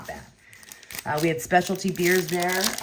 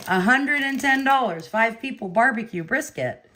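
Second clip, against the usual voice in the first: higher and louder, stunned at the price; incredulous disbelief; 6 semitones higher, 4 dB louder than usual. Real, not acted. Amazed at cheap barbecue bill.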